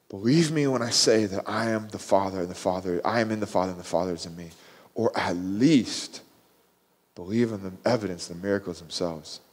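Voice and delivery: low, soft, sincere pleading; earnest appeal. Retold or imitated. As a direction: drop to a quiet, patient appeal. Jesus softens after impassioned rebuke.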